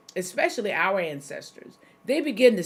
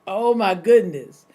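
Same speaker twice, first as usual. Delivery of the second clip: shocked exclamation; 7 dB louder than usual. Real, not acted. Reacting to forty percent.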